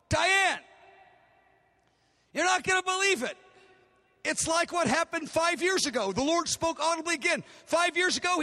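a lightly voiced burst of excitement; excited. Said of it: "So I'm so excited".

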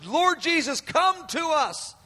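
high, slowing plea to heaven; cry upwards. Acted. Preacher voices the church's cry to Jesus, high drawn-out call. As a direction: call upward, stretching the last words. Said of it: "It's a cry upwards".

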